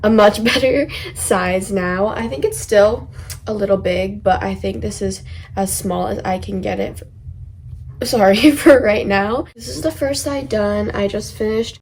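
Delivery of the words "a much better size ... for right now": talking through hiccups; laughing while fighting off hiccups; suppressing hiccups. Real, not acted. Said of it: "sorry, I have hiccups".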